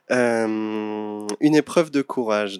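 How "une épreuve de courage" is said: movie trailer voice. Pretend. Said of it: "t'as la voix bande-annonce et tout".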